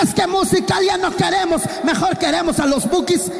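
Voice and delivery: demanding youth. Acted. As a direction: church youth insisting on a band's music, shouted. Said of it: "young people demanding Bukis".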